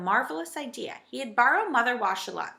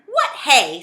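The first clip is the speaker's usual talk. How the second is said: loud, higher puzzled question; surprised; 4 semitones higher, 11 dB louder than usual. A narrator's reading. Saucepan man mishears Mother's good day, in surprise. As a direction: blurt it in surprise. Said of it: "in surprise".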